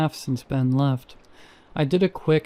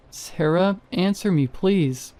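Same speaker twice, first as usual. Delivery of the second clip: higher, urgent plea; anxious pleading; 5 semitones higher than usual. Acted. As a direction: beg her to answer. Desperate calling after silence.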